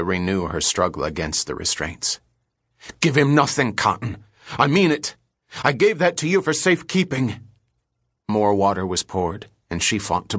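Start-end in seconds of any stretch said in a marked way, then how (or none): 3.0-7.4 desperate shout. Acted. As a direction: cry it out as if drowning. Captive woman pleads while being tortured.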